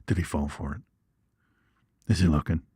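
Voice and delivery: soft, low sly whisper-like voice; sneaky snake voice. Retold or imitated. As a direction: play the snake peeking to see if its trick worked.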